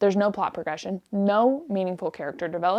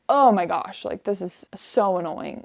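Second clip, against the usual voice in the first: voiced annoyance. Reader venting aloud at a book, annoyed. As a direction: let the annoyance out, drawing it out. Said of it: "verbalizing every annoyance".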